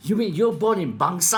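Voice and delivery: a playful, surprised question; mock surprise. Real, not acted. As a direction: act amazed at the idea. Playful disbelief at own birthplace.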